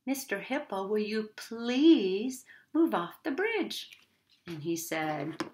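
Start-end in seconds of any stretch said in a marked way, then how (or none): 0.0-3.9 polite asking. Shown as a demonstration. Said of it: "You say".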